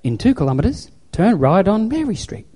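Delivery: lightly imitated sat-nav instructions; GPS voice. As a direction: announce the next turn like a patient GPS. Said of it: "what the G P S says".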